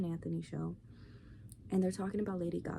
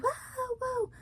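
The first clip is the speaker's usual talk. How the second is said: a much higher, wailing mock whoa; stoned concertgoer. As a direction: play a high fan awestruck at nothing. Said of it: "And they're like".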